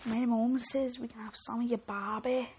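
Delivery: badly faked Australian kid; half-successful put-on Australian accent. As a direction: have a clumsy go at an Australian accent. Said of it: "I can't do an Australian accent".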